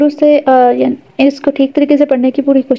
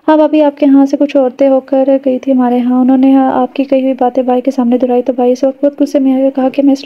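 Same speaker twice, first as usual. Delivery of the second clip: story narration. A narrator's reading. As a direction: read the novel aloud to listeners. Reads a story aloud. (کہانی سنانے کا انداز)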